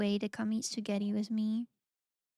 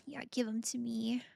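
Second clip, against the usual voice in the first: greedy whisper; 6 dB quieter than usual. Pretend. Greedy aside.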